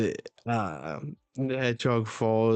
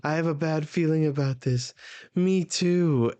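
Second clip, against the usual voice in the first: higher-pitched mock dread; acted worry; 5 semitones higher than usual. Nami and Usopp share a bad feeling, higher mock worry. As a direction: raise the voice into uneasy character lines.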